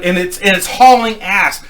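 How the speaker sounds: ordinary talk, nothing marked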